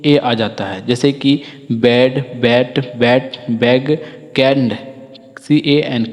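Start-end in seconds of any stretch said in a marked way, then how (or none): 1.7-4.8 बेड, बैट, बैग as separate slow model words with an e-like a; short a demo. Shown as a demonstration. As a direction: read out बेड, बैट, बैग one by one, clearly. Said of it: "ए का short sound होता है".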